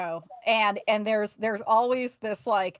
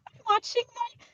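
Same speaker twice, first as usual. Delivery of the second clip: high, strained mock-serene voice; forced calm over gritted teeth; a consort faking serenity while her fighter loses; fake serene consort; 10 semitones higher, 6 dB louder than usual. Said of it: "I am serene and having the best day".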